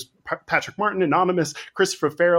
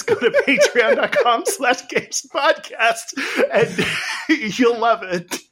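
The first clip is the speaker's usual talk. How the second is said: laughing through the plug; giggling, pitch up; 8 semitones higher, 3 dB louder, slower than usual. Real, not acted. Plugging Patreon while cracking up.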